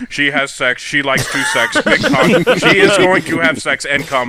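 flat, mechanical mock reading; robotic reading. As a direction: read it like a clunky robot. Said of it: "the robotic reading of all this sex".

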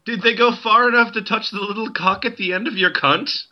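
a light put-on Irish accent, questioning. Joyce questioning Nora in a light Irish accent. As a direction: ask it with a mild Irish lilt. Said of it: "My Irish accent is going away".

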